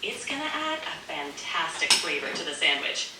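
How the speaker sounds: lightly put-on Italian accent. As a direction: chat with a hint of an Italian accent. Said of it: "you don't have to do the Italian accent".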